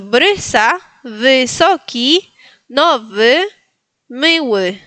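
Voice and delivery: brysa, wysoki, nowy, miły spaced out with y between e and i; drawn-out words, miły ending in "ue"; model Polish pronunciation. Shown as a demonstration. Teacher repeating words for the student's turn, careful and spaced. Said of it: "Entonces, repito".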